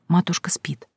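soft whisper by the sickbed. A narrator's reading. Girl whispering that her mother sleeps, whispered. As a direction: whisper so mother stays asleep. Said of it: "тихо сказала".

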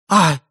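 short, startled shriek; lady's cry. A narrator's reading. Lady hearing who killed her dog, sharp cry. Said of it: "вскрикнула дама".

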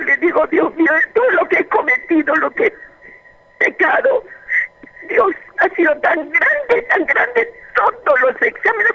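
pleading prayer. Retold or imitated. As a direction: beg God for mercy, voice climbing. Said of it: "rogaba a Dios".

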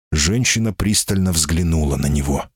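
plain reading voice

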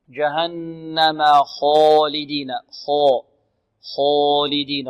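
slow خالدين with a dark, full "kho"; خالدين as "khoolideen"; heavy kha. Shown as a demonstration. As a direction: thicken the خ and its vowel in خالدين. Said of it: "الخاء مفخمة".

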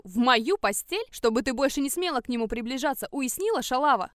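put-on a stepmother yelling at the girl, furious shout; screaming at her. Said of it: "она орала на меня до хрипоты".

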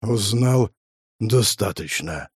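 very slow sick man's rasp from the grave; halting, drawn-out graveside croak; sepulchral rasp. A narrator's reading. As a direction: drag the words out like a dying man. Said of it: "захрипел загробным голосом больной".

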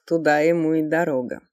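put-on drunk woman calling out loud; slurred, defiant tipsy woman; пьяный женский голос. Пьяная баронесса отвечает из кресла. (пьяная баронесса)

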